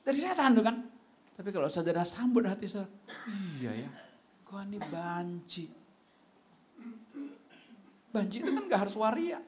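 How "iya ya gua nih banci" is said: cowardly man. Retold or imitated. Preacher voices timid cowardly man.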